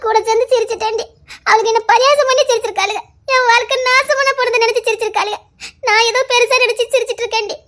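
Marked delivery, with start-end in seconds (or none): 3.3-7.6 bitter laugh through tears. Acted.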